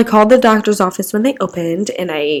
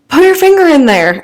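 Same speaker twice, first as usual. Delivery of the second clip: playful high quip; 7 semitones higher, 4 dB louder than usual. Retold or imitated. Joking quote to the surgeon.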